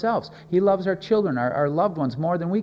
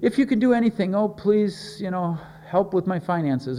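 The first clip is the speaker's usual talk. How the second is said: hammed-up, higher-pitched begging; pleading prayer; 3 semitones higher than usual. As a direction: imitate a hesitant, needy prayer. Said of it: "Are we praying".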